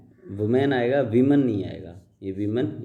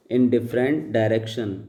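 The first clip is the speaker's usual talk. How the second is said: slow, deliberate read-aloud of the paragraph; slow dictation reading; much slower than usual. Shown as a demonstration. Teacher reading the paragraph aloud to students, slow and deliberate. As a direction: read each word out slowly for the class. Reads slowly.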